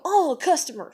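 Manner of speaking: high mock exclamation; mocking coworkers. Mimicking coworkers who walk off, high and mocking. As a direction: call out the excuse in mockery.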